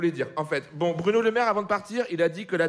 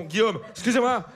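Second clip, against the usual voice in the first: ordinary delivery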